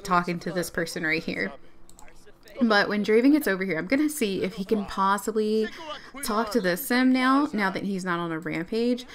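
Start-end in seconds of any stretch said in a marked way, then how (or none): none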